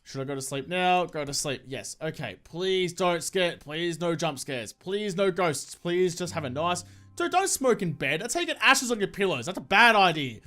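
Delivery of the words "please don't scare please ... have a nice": slow, pleading under the breath; drawn-out nervous please. Real, not acted. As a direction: beg slowly for no scares. Begging the game for no scares.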